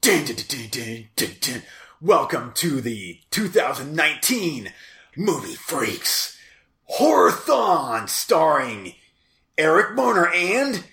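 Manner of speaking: slow dramatic horror intro; show announcer. Pretend. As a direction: announce it like a spooky trailer. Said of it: "why don't you do one live".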